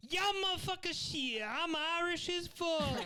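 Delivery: put-on high-pitched caricatured Black American accent. Comic playing an Irishman, in a Black American accent. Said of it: "can you do a black accent of someone".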